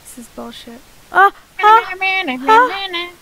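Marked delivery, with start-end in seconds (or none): 1.1-3.1 drawn-out moans; moaning. Real, not acted. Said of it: "No moaning".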